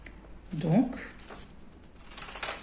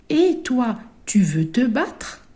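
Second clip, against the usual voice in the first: high, loud challenging ladybug; ladybug picking a fight; 4 semitones higher, 4 dB louder than usual. Acted. A ladybug daring a classmate to fight, high and challenging. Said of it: "Regardez comment que les questions sont posées".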